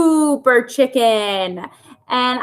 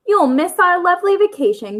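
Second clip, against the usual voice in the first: higher, lightly hammed-up gloating hen; mock cackle; 7 semitones higher than usual. Aunt hen teasing Henrietta about vacation, mild mock cackle. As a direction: crow over her a little. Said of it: "cackled Aunt Liz".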